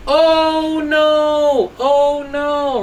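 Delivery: the orange acts out a scared little cry; mock scream. Teacher to pupils, voicing a scared orange crying out. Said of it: "started screaming".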